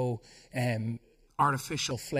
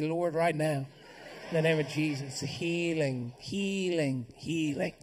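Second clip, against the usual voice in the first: healing prayer. Shown as a demonstration.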